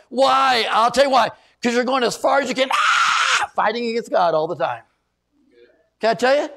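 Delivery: high, loud shouted rebuke; preaching shout. Real, not acted. Preacher rebuking the church, loud and high. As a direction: call them out at full voice.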